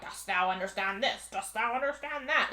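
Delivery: lightly voiced spooky god; mock ominous questioning; a hint of death-god intoning; super spooky voice. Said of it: "super spooky voice".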